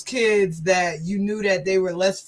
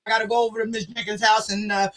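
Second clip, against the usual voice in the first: put-on drunk mechanic; faster than usual. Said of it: "This was him".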